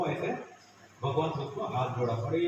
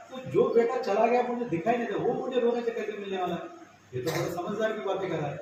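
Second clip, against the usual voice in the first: dawning realization; 6 semitones higher, 4 dB louder, faster than usual. Acted. Father realizes the truth.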